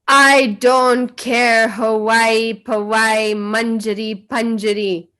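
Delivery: loud, drawn-out scolding; imitating the guru's angry outburst; retold angry shouting. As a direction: thunder it out, stretching "don't care". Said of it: "he was shouting".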